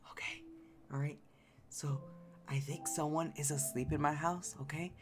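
hushed whisper so no one wakes; breathy whisper into the mic; sneaking whisper to the stream. Pretend. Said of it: "Yes, I'm whispering".

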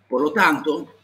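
normal talking voice

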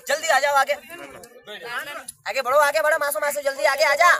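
loud call to the crowd to come closer. Real, not acted. Calling crowd to step forward. (भीड़ को ज़ोर से आगे बुलाना)

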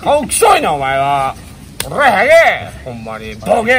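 怒鳴り声. Acted. ドッキリで相方に怒るふり.

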